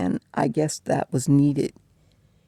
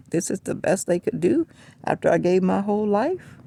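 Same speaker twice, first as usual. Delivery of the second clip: imagined complaint; 5 semitones higher than usual. Pretend. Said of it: "complaining like".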